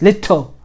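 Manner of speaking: little with a hard middle t; hitting both letters. Shown as a demonstration. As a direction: hit lit, then tle. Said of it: "You're hitting the, the two letters".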